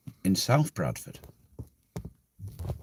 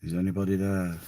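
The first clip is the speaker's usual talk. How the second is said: put-on spooky Transylvanian accent, lightly done; a touch of Transylvanian vampire. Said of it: "That's my Transylvanian accent".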